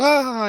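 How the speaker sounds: high, put-on kid's laugh; imitated laugh. Billy laughing at the clown's question, giddy. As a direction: mimic a child laughing harder. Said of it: "he's laughing even harder".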